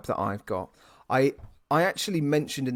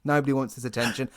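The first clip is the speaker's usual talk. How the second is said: exasperated call; 4 dB louder, faster than usual. Retold or imitated. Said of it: "we're like".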